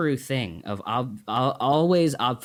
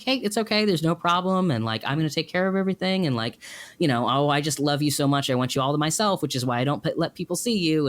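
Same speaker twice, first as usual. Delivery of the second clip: high, breezy mother voice; lightly voiced cheerful denial; mother cheerfully covering up; mother brushing it off; 6 semitones higher than usual. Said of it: "she just said".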